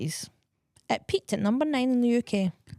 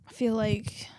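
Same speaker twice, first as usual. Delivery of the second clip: whispering; 4 dB quieter, slower than usual. Real, not acted. Whispered start of reply.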